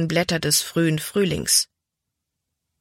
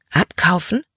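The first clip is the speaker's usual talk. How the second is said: überrascht. A narrator's reading. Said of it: "Libby war überrascht".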